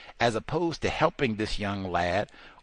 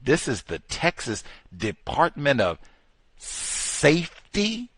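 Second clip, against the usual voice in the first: Safety? pitched way up and stretched long; emphasis on Safety; 4 semitones higher, slower than usual. Real, not acted. Stressing the department's name to his listeners, Safety? high and long. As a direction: land hard on Safety? with a high drawn-out rise. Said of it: "I put the emphasis".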